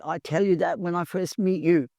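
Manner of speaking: lightly put-on Italian father-in-law; imitated Italian accent. Italian father-in-law chides her before driving to hospital, imitated Italian accent. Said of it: "my Italian father-in-law".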